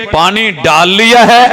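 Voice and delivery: slow, drawn out پانی ڈال لیا ہے; slow mock announcement. Shown as a demonstration. Preacher mocks the man who poured water, slow. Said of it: "said twice, contrasted".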